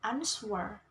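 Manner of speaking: "answer" stressed on its first syllable, AN. Shown as a demonstration. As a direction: put the weight on the AN of "answer". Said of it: "stress on the first syllable".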